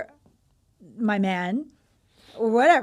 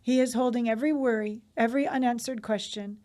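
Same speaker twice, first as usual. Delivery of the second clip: soothing bedtime read-aloud. Real, not acted. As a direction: read it like a blessing that settles someone to sleep. Reads aloud a soothing bedtime message.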